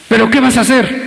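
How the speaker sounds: pregunta alta y retadora; presiónalo como entrenador en el ring; reto insistente. Retold or imitated. El predicador acosa al caído. (el predicador reta al caído, voz alta)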